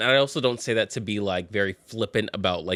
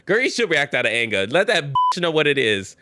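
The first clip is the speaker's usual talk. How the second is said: fired up; 4 semitones higher, 4 dB louder than usual. Real, not acted. Urging writer to be angry.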